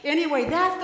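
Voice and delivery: breathy laugh into her next words; real amused laugh. Real, not acted. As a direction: laugh it off and carry on. Children's sermon, teacher laughs.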